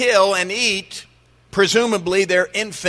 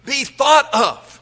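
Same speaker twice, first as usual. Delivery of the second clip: incredulous listener; 6 semitones higher than usual. Acted. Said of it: "you say".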